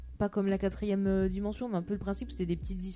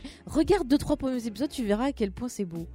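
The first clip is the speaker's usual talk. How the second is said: higher, louder, insisting; insistent; 5 semitones higher, 3 dB louder than usual. Real, not acted. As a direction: push the point, insistent. Insiste pour défendre la série. (insistance vive et plus aiguë)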